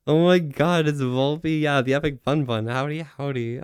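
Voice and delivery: lightly put-on fan greeting; a rough imitation, starting high and easing off; Keat Fox. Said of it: "I'm messing up the Keat impression".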